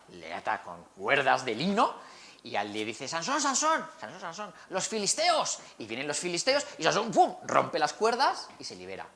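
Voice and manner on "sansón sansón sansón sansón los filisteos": high, urgent warning cry; alarmed call. Acted. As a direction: sound the alarm, higher pitched. Dalila warns of the Philistines.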